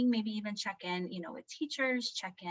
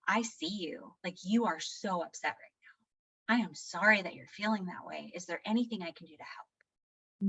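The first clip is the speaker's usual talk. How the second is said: empathetic. Retold or imitated. Modelling empathy to upset child.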